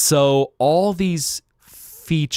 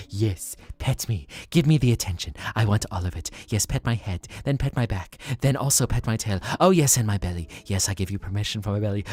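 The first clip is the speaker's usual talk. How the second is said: voicing a cat; faster than usual. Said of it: "dog-brained cats who's like".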